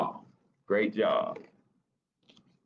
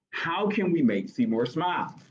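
Splat's worried voice, pitched up; higher character voice; 8 semitones higher than usual. Acted. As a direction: raise the voice for the cat. Character line, high pitch.

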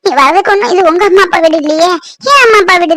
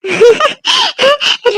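joyful laugh; 6 semitones higher than usual. Acted. Wife overjoyed at the news.

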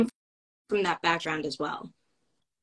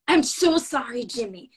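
put-on Joan Rivers accent; 3 semitones higher, 4 dB louder than usual. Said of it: "with the accent and everything".

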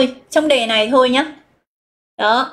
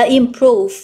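improve with stress on PROVE; stress on second syllable. Shown as a demonstration. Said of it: "chúng ta sẽ nhấn vào âm số hai". (nhấn âm hai của improve)

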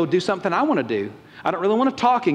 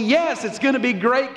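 slow, higher, put-on cheer; phony enthusiasm; 4 semitones higher than usual. Believer musters up a yes for God, phony enthusiasm. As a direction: fake an eager yes. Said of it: "you can't muster up this phony".

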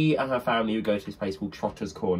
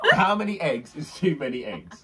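corrected reading. Shown as a demonstration. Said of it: "Two, oh, wait".

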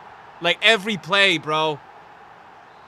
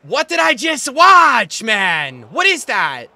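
disbelief; 5 semitones higher, 11 dB louder, slower than usual. Real, not acted. Disbelief at replay.

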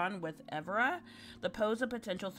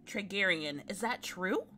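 put-on lightly raised, curious girl; young girl voice; 4 semitones higher, 4 dB louder than usual. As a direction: ask like an eager young villager. Voices the tavern visitor.

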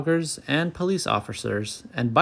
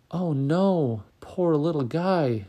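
higher-pitched, tender dismay; sad sympathy; 5 semitones higher, slower than usual. A narrator's reading. Gertie seeing the turtle in trouble, mildly sad. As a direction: pity the little one, pitch lifted. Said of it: "she said sadly".

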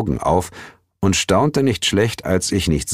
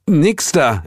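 firm refusal; 9 semitones higher, 3 dB louder than usual. A narrator's reading. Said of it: "entgegnete der Inspektor".

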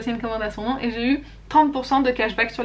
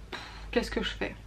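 breathy whisper of hesitation, softer; whispered dilemma; 2 semitones lower, 12 dB quieter than usual. Retold or imitated. Vlogger recalling hesitating over an expensive palette, whispered. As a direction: whisper it like you're torn about a purchase.

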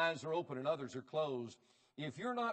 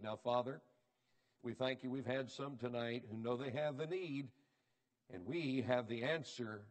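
prayer; 3 semitones lower than usual. Acted. Leads a closing prayer.

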